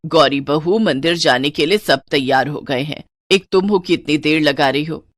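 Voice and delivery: lightly voiced impatient mother-in-law; scolding mother-in-law. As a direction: call the bride to hurry up.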